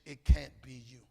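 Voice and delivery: "can't" hit hard and loud; loud punch. Real, not acted. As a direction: drive "it can't be you" home loudly. Repeats the line, punches it loud.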